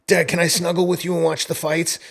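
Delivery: put-on a cute kid voice asking dad; imitating sweet daughter. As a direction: mimic a daughter angling for cuddles.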